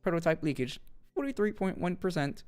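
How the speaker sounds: flat system announcement; robot voice. Acted. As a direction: speak like a machine. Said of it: "like, a robot voice when I voice this".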